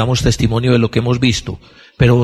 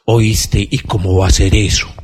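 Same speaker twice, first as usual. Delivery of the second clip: Nicodemus; 4 semitones lower than usual. Retold or imitated. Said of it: "les respondía este muchacho Nicodemo".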